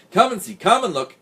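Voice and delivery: high, loud, eager cat cry; excited cat summoning the others; excited mewing. A narrator's reading. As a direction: call everyone over excitedly, pitched high. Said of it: "mewing excitedly".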